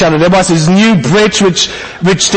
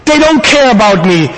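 high exasperated groan into a complaint; mock-wounded parent venting; frustrated; 4 semitones higher, slower than usual. Frustrated dad complaining about his children, exasperated. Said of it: "when I was so frustrated with them".

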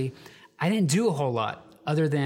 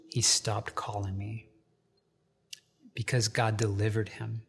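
hushed reveal; 3 semitones lower, 3 dB quieter than usual. Real, not acted. Pastor telling his congregation the good news, hushed whisper. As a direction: let it drop to a whisper for the payoff. Dramatic reveal of friend's healing.

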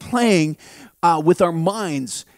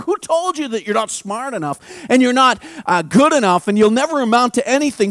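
God asking, growing into a shout; God's voice building. Acted. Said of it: "asks me".

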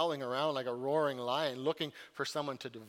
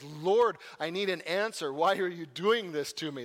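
Job crying out; 2 semitones higher, 6 dB louder than usual. Retold or imitated. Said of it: "Job shakes his fist at the heavens".

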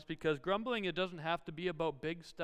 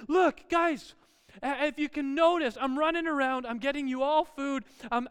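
raised, higher-pitched dad lecture; exasperated dad; 5 semitones higher, 5 dB louder than usual. Retold or imitated. Dad running around after complaining kids, exasperated lecture. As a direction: act out a fed-up dad's rant.

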